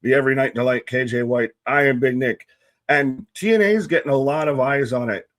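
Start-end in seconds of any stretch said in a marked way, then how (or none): 0.0-2.4 booming ring announcer intro; grand entrance announcement. Acted. Ring-announcer style introduction of hosts.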